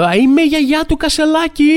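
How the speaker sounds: high, loud mock grandma insisting; insistent mock grandma. (γιαγιά που επιμένει, ψηλά και δυνατά)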